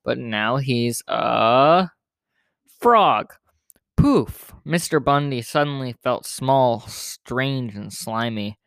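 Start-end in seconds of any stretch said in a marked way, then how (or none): 0.0-3.3 magic spell. Acted. 4.0-4.5 high, loud "Poof!"; magic poof. Acted. Magic spell goes off.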